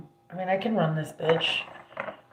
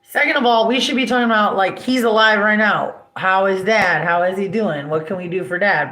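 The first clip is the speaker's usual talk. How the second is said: retold angry rant; 4 dB louder than usual. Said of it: "I'm like".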